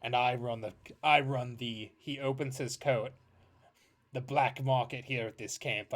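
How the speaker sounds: lightly voiced sly dealer kid; a hint of a smooth black marketeer; shady merchant kid. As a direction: pitch the wares like a shifty dealer. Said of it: "turns to the three of you and goes".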